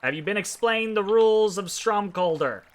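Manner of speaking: brisk official goblin clerk. Acted. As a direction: voice the bored goblin registrar.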